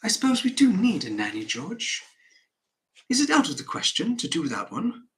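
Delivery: polite, hesitant question to a husband; tentative wife. Acted. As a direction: raise the pitch and ask cautiously. Acting the wife, timidly asking.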